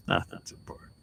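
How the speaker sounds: whispered, breathy repeat of "Nothing's important". Shown as a demonstration. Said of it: "whispered repeat".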